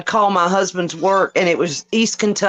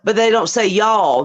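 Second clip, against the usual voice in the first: ordinary talk, nothing marked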